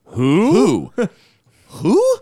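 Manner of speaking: loud high "Who?"; retelling his shock at the post; mock surprise. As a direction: yelp it out in disbelief. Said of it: "I was like".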